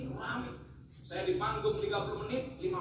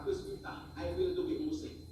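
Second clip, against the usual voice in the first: nada tinggi meniru bule yang ingin masuk Islam; tiruan orang asing; 11 semitones higher than usual. Retold or imitated. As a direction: bule bicara Inggris patah-patah, nada tinggi. Meniru mualaf dari Australia. (tiruan ringan kepala keluarga dari Canberra)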